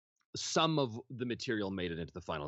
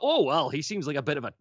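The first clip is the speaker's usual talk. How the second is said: lightly Scottish, high and louder; light Scottish musing; 7 semitones higher, 6 dB louder than usual. Retold or imitated. Actor recalling his idea for the character, lightly Scottish. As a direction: muse it with a wee Scottish lilt. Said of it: "And I thought".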